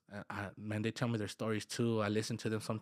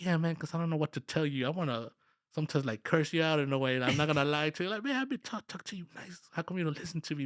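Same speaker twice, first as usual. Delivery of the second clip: exasperated venting, pitched up; frustrated; 5 semitones higher than usual. Retold or imitated. Boss answers workers who see he's upset, frustrated. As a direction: plead with them in mounting exasperation. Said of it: "And yes, I get frustrated".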